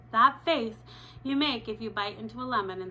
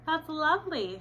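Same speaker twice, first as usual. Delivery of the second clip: bright, higher polite teacher; sweet teacher reply; chirpy teacher voice; 7 semitones higher, 3 dB louder than usual. Retold or imitated. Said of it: "she says".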